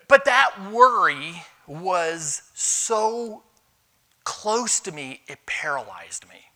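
drawn out slowly, dropping to a whisper. Real, not acted. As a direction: let the weight of the worry sink into a whisper. Confessing paralysing worry.

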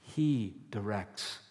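rising, stronger affirmation; confident declaration. Pretend. Believers declaring their Father is in control, rising conviction. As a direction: proclaim God's rule with growing conviction. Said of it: "we say".

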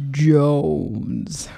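deep, low and loud Jones; playful deep voice. Pretend. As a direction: push the word down low. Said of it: "Low voice".

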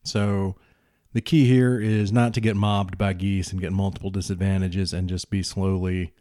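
explaining the rules to the audience; narrator voiceover. Acted. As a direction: clear explainer commentary.

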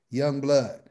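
lightly voiced older street dude, building to an impressed goddamn; imitating an old OG. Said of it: "just like this".

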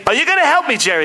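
acted high plea to an agent; pleading client. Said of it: "he's, like, dancing, listening to this music".

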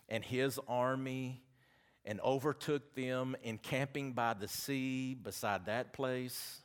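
slow, measured public Bible reading; scripture reading. Real, not acted. Preacher reads Exodus to his congregation, slow scripture reading. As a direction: read it out in deliberate, spaced phrases.

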